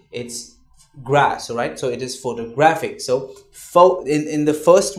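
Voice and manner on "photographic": photographic with gra stressed. Shown as a demonstration. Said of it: "you don't stress on toe or photo".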